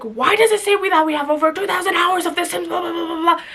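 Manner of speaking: lightly hammed-up whiny brother; mock annoyed brother. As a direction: rattle it off like a griping older brother. Brother's complaint voiced in retelling.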